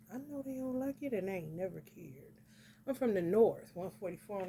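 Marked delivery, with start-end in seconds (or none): 0.1-2.4 unvoiced whispered aside; hushed confiding whisper. Real, not acted. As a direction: whisper it like a secret.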